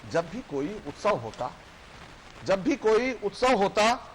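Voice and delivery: measured verse recital with lifted line ends; poem recitation. Acted. Poet recites a labourer's small wish, declaimed in verse. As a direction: recite it rhythmically to an audience.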